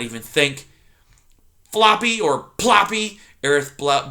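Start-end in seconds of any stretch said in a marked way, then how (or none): 1.7-3.2 bellowing porcupine. Acted. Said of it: "Aerith bellowed".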